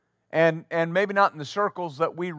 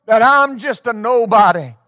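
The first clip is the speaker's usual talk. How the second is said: testimony shout; 4 semitones higher, 8 dB louder than usual. Retold or imitated. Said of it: "they'll say".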